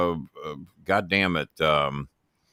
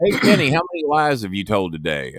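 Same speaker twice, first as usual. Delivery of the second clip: a high yelp on hey, then near his own voice; mock the caller, mostly lightly; voicing Jimmy; 5 semitones higher than usual. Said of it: "Jimmy calling again".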